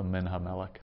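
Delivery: MIN HAMELECH run together as one word; sped-up early syllables. Shown as a demonstration. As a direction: hurry "Min Ha" into the stressed ME of "Melech". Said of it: "speed up early syllables".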